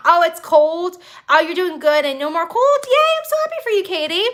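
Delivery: rising to a high happy squeal; delighted shout-out to a viewer; excited cheer. Real, not acted. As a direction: cheer her on brightly. Reading chat aloud, cheering.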